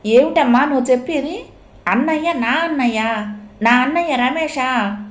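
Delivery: high, disbelieving outcry; shocked cry. Acted. Sister learns the hero is her brother, crying out high. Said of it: "కేక పెట్టింది".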